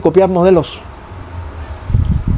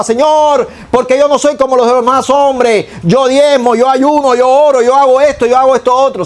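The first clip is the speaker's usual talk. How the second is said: higher, self-satisfied boasting prayer; mock pompous prayer, pitched up; proud Pharisee praying; 4 semitones higher than usual. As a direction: play the smug Pharisee listing his deeds. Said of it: "y el fariseo oraba".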